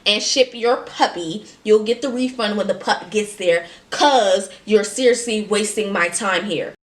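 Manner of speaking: impatient scammer. Retold or imitated. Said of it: "this is when the tone changed".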